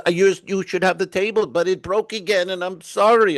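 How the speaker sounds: imitating the maid's high-pitched apology; apologetic maid. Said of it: "And she's so sorry".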